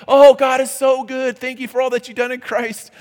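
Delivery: high, loud, sing-song praise; mock churchy praise. Preacher imitating a congregant praising God, sing-song. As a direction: beam it out like Sunday worship. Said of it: "you're singing".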